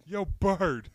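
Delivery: high squawky parrot call. Pretend. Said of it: "parrot voice".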